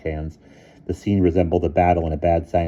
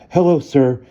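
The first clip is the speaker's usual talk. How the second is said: panted; 9 semitones higher, 10 dB louder than usual. A narrator's reading. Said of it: "panted Bruno".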